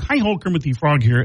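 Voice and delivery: puppet frog's chirpy greeting; bright felt-frog hello; Kermit the Frog. Retold or imitated.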